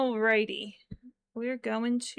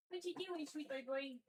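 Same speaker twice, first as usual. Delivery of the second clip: high soft coo; 4 semitones higher, 10 dB quieter than usual. Real, not acted. Owner cooing at her pet.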